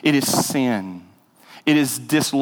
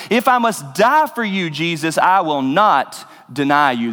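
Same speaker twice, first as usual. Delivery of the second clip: firm insistence rising high, then settling; emphatic vow; 4 semitones higher than usual. Retold or imitated. Peter vowing to Jesus he will never deny him, emphatic. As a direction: swear loyalty with a touch of force. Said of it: "He said emphatically".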